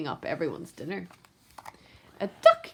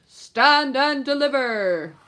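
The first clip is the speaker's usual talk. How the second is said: thundering rat; 3 semitones higher than usual. Acted. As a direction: boom it like a bandit ambush. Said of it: "He thundered".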